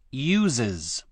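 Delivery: "uses" with an added iz ending. Shown as a demonstration. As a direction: say uses in two syllables, ending iz. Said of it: "usesはisと発音していた".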